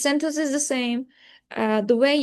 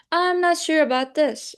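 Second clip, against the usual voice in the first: higher-pitched, unsure "this"; uncertain rising tone; 4 semitones higher than usual. Shown as a demonstration. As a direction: let "I'm not sure about this" sit high with doubt. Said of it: "a rising tone can be yes, no questions or uncertainty".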